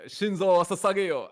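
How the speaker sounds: "Shinzo Sasageyo" drawn out, high and loud; heavy emphasis. Real, not acted. Player quoting Attack on Titan in Japanese, with heavy emphasis. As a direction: stretch "Shinzo Sasageyo" with a Japanese-style twang. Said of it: "You say it with so much".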